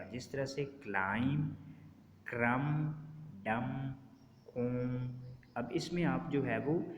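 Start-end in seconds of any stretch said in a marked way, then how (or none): 0.6-5.1 "क्लाइम, क्रम, डम, कोम" each ending on M, no B; silent B. Shown as a demonstration. Teacher giving examples of the B rule, silent B. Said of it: "तो बी silent हो जाएगा".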